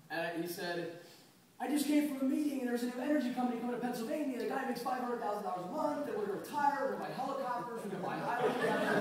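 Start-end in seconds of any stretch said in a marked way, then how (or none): 1.6-9.0 higher, louder, racing with glee; lottery-winner excitement. Retold or imitated. Brother Chris calls with his big energy news, thrilled. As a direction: gush like you just hit the jackpot. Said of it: "he sounded like he just won a million dollars in the lottery".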